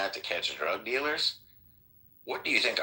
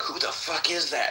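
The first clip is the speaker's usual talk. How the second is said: retold screaming; 9 semitones higher than usual. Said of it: "they're screaming at him".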